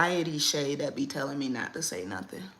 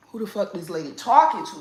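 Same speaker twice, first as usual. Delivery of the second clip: mock bewilderment; 2 semitones higher, 8 dB louder than usual. Shown as a demonstration. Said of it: "you wondering who".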